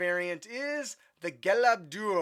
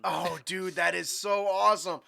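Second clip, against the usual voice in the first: usual speaking voice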